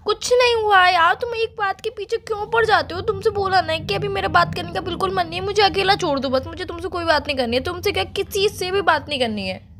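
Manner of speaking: exasperated. Real, not acted. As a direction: push them away in exasperation. Upset, demands to be left alone.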